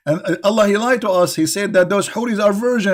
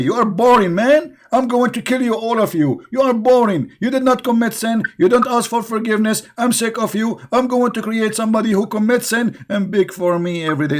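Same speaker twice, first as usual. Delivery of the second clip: lightly voiced irritated deity; a hint of a bored, angry god; 6 semitones higher than usual. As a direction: grumble like a fed-up god.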